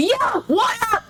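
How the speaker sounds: casual greeting. Pretend. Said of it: "That's exactly what I was thinking".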